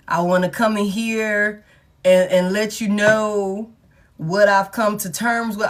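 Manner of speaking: slow, deliberate mock sincerity; a lightly voiced ex delivering a rehearsed apology; earnest speech. Acting out an ex giving a speech.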